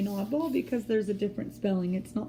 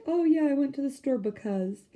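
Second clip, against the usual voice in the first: casual speech; 5 semitones higher than usual. Shown as a demonstration. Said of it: "when we're saying like".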